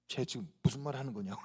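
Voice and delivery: low, soft aside with a laugh coming; baffled aside. Acted. Disciples reacting to Thomas, baffled low aside. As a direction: drop it low, as if puzzled among friends.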